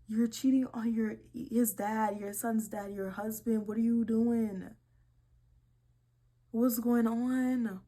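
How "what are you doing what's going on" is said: louder, slow indignant demand. Real, not acted. Scolding the cheating mom, loud slow indignation. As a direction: demand it in disbelief.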